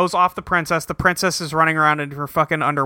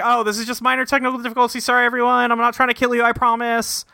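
high apologetic princess; 6 semitones higher, faster than usual. Retold or imitated. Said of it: "She's like".

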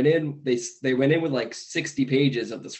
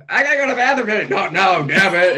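shrill panicky squeal, higher and louder; frantic high yell; 6 semitones higher, 6 dB louder, faster than usual. Retold or imitated. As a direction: blurt it out fast in a panic. Farley car scene acted.

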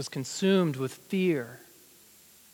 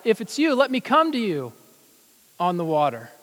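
crying out; 3 semitones higher than usual. Acted. Peter calls to Jesus on the water, crying out. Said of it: "I cried out".

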